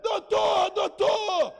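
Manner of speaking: high, loud urgent shout; loud high alarmed call; shouting for doctor. Retold or imitated. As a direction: yell down the corridor for help.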